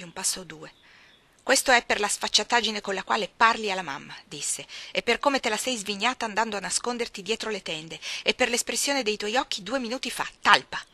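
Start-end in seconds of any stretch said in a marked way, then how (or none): 1.4-4.2 put-on bullying boy. John Reed scolds Jane. 4.9-10.8 sneering list ending in a loud insult; bullying boy building to a yell. Acted. John Reed keeps scolding.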